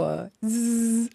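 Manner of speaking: a buzzing zzzz, like a glitch in her head; buzzing noise. Retold or imitated. Author mimics the doubt buzzing in her head, buzzing hum. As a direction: hum a little buzz of doubt. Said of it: "quelque chose dans ma tête fait toujours".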